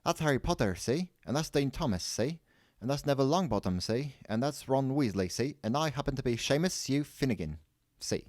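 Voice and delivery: high, chirpy run of introductions; eager young introducer. A narrator's reading. Boy introducing his friends to the shopkeeper, eager.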